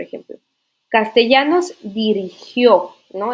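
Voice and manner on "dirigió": dirigió, loud and drawn out, stressed on the final ó; stress on final syllable. Shown as a demonstration. Teacher showing students an accented past verb, dirigió stressed on its final ó. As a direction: lean firmly on the last syllable of dirigió. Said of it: "lleva acento en la última".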